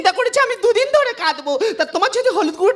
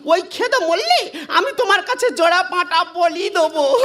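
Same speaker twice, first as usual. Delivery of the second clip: mock wailing prayer; much slower than usual. Shown as a demonstration. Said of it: "কাঁদ, কাঁদ, গেগড়ে".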